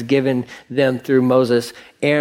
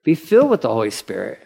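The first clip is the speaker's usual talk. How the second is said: "filled" said quickly with a lift at the end; fast, rising repeat of "filled"; faster than usual. Shown as a demonstration. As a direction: rattle off "Be filled with the Holy Spirit" lightly. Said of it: "today's language is like".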